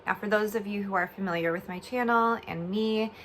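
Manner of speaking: speaking through a swollen jaw after oral surgery; slightly slurred words from a swollen mouth. Real, not acted. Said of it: "I'm talking kind of funny".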